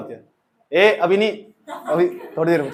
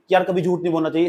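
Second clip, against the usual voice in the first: heartfelt advice; 3 semitones lower, faster than usual. Shown as a demonstration. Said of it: "इसमें तो feeling है".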